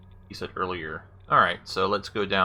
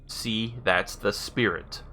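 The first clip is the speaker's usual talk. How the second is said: slow, evenly spaced words; careful command; slower than usual. Real, not acted. Player retrying a voice command, slow and careful. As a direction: say it slowly for a machine to catch.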